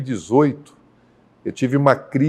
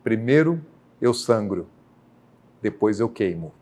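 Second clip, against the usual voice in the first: grave divine pronouncement; 3 semitones lower, 3 dB quieter than usual. Retold or imitated. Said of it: "a segunda frase dele foi".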